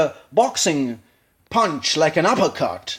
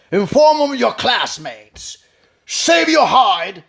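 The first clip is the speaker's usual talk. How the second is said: slow, louder speech from the stomach; imitating Pacino; 6 semitones higher, 4 dB louder, slower than usual. Coach repeating Pacino's line, slow and settled. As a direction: let the voice settle and grow from the gut. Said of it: "he's growing from the stomach".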